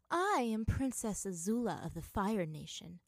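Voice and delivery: stately, understated proclamation; proud. Acted. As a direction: announce a royal title with pride. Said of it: "she announced proudly".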